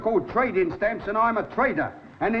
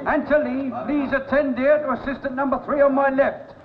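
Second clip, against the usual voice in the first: calling out to the shop; 3 semitones higher than usual. Acted. Shopkeeper directing crowd of customers.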